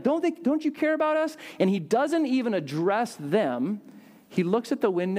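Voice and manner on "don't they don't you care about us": high-pitched imitated plea; retold crying out. Disciples wake Jesus in the storm, high acted outcry. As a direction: play disciples urgently waking their teacher, pitch jumping up. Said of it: "They wake him up".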